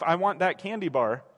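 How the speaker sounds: a hint of a sulky grown man; plain adult voice, lightly petulant; low, flat mock demand. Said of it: "grown man yelling at his wife".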